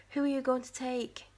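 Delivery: usual speaking voice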